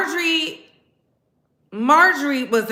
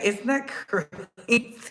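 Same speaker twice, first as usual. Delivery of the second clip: laughing; 5 dB quieter, slower than usual. Retold or imitated. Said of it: "I said".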